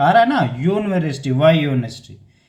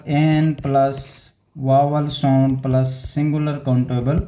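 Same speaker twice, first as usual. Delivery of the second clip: slow first statement of rule; 4 semitones lower, slower than usual. Shown as a demonstration. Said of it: "फिर एक बार बता देता हूँ".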